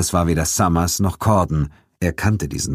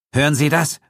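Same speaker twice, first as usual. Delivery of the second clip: fearful; 10 semitones higher than usual. Acted. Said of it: "rief Ferguson ängstlich".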